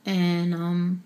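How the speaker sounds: real tears pushing through, with long pauses between words; holding back tears. Real, not acted. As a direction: fight to keep from crying while talking about her grandmother. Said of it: "I'm trying not to cry".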